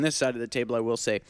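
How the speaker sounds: talking while chewing; words round a bite of food; mouth full. Real, not acted. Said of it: "just took a bite of his own wing".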